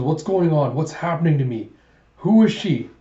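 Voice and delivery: rising alarm, ending almost in a yelp on the last question; panicked confusion. Acted.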